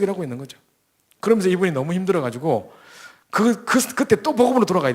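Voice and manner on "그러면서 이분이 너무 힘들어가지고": ordinary delivery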